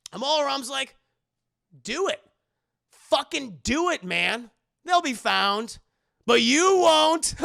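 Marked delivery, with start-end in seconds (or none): 1.8-7.3 loud, high, slow menacing dare; hammed-up villain snarl. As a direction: taunt him, stretching each word. Villain dares Indy.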